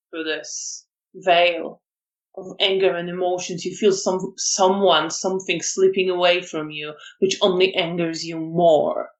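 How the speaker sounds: measured scene-setting voice; game master's narration. Acted. Game master describes anger growing in the player, steady narration.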